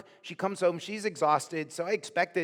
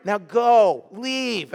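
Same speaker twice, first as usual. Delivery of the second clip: loud sharp order to go; firm command; 3 semitones higher, 6 dB louder, much slower than usual. Retold or imitated. Nurse Yvette ordering John to leave, firm and loud. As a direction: shove him out with the words.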